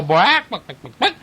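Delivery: lightly imitated chicken squawk; a quick mock cluck; scared chicken clucking. Reader retells the scared chickens, lightly imitated clucking. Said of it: "It scares the chickens. They go".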